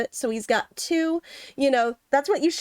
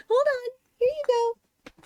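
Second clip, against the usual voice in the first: pet-talk voice; 12 semitones higher than usual. Real, not acted. Talking to her pets.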